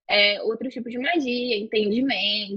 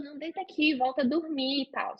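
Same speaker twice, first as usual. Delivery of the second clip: reassuring; 7 dB quieter than usual. Retold or imitated. Boyfriend soothing her.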